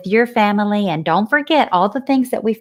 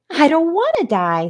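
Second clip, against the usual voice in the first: wailing; 7 semitones higher than usual. Acted. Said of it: "throwing himself to the ground".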